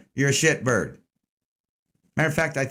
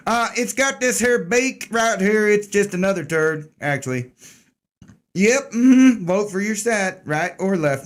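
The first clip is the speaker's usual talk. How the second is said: lightly hammed-up redneck accent, pitched up; a mock country redneck showing off a bird; fake redneck accent; 5 semitones higher than usual. Host mocking the government bird for viewers, fake redneck accent. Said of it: "by the fake redneck accent".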